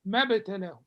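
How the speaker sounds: ما ابتلاه said mabtalah, alif silent; ما ابتلاه without the alif; ما ابتلاه linked. Shown as a demonstration. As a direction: glide straight from m to b in ما ابتلاه. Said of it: "this alif is not pronounced".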